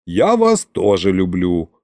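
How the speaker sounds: low grumble; grumbling. Acted. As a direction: grumble it under your breath. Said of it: "проворчал я". (ворчливо)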